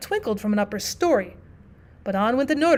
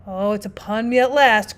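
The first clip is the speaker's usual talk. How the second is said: fearful groan; 4 dB louder than usual. Acted. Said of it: "groaned the fear-stricken man".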